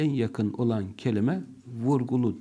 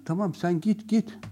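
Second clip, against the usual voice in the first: sarcastic; 7 semitones higher than usual. Shown as a demonstration. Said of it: "Gitme demektir bu".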